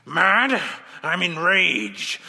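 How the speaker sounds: slow, seething rising outrage; indignant villain. Acted. Villain rejecting being called mad, seething anger. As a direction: spit the word back, then slow down. Villain answers accusation of madness.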